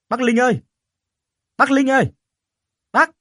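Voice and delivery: very high, loud call toward the house. Acted. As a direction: yell his name with everything you have. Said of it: "Lần này anh cố gọi to hơn".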